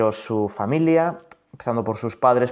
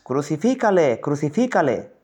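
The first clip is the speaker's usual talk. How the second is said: louder mob cry, higher; crowd shouting louder; 4 semitones higher than usual. Acted. The crowd shouts even more at Pilate, loud. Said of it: "gritaban aún más".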